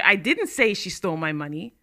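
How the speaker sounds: didnt lifted and pushed; stress on DIDN'T. Shown as a demonstration. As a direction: lean on the word didnt. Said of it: "means I didn't say it".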